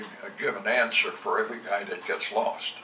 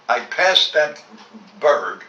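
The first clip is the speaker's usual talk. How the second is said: louder and higher, insisting on "I passed that"; raised, indignant voice; insistent retold shout; 4 semitones higher, 9 dB louder, slower than usual. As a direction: hammer it home to the major. Heated argument with the major.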